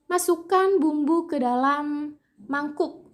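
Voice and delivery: slow, high on "Masukkan", falling to "mangkuk"; command intonation. Shown as a demonstration. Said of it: "memiliki intonasi tinggi di awal, kemudian rendah di akhir".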